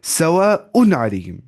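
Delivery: सवाउन अलैहिम slowly, with a clear n before the ain; clear izhar. Shown as a demonstration. Teacher showing an izhar example, clear noon in सवाउन. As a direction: land a clean n in सवाउन. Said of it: "ऐसे देखिए".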